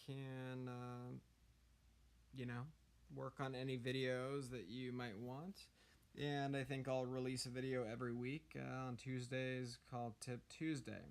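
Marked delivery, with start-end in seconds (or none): 6.2-11.0 hoarse from being sick. Real, not acted. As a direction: talk through a sore, rough throat. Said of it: "sorry for the hoarse voice, I'm kinda sick".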